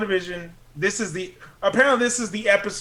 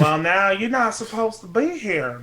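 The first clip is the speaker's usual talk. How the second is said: put-on old settler drawl. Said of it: "old ass settler shit".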